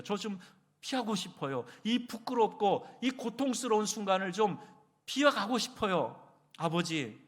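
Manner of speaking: high, pleading voice; earnest pleading prayer. Retold or imitated. Jesus begging his Father before his suffering, earnest pleading. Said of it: "간절히 기도한 거예요".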